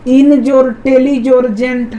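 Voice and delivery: इन, टेली, जेंट as separate pieces joined by जोर; syllable by syllable. Shown as a demonstration. Teacher adding up the three parts, syllable by syllable. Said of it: "तीन ठो आ रहा है".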